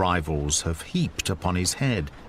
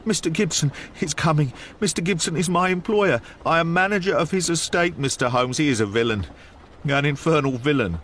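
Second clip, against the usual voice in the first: short, breathless bursts, a touch higher; out of breath; 5 semitones higher than usual. Acted. Frightened manager warning Holmes, lightly voiced breathless bursts. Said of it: "shooting out short sentences like a man who is out of breath".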